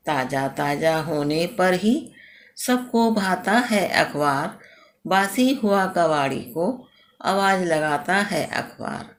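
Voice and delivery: put-on measured, rhythmic reading of a children's poem; teacher reciting a poem about the newspaper; poem recitation. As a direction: recite each couplet with a steady lilt to the class.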